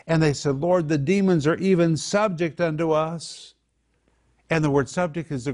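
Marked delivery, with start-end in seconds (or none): 0.6-3.5 acted excitement, pitched higher; really excited. Disciples come back to tell the Lord, excited. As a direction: report it with excited emphasis. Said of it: "they were really excited".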